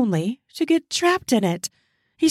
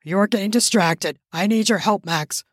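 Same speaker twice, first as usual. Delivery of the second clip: begging; 3 semitones lower than usual. Acted. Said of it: "Charles called out".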